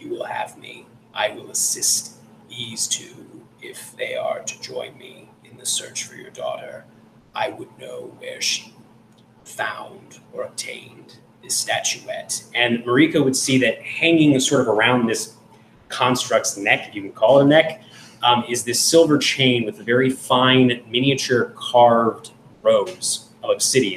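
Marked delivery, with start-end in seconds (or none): 0.0-12.4 soft, reedy, genderless whisper. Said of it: "And it says".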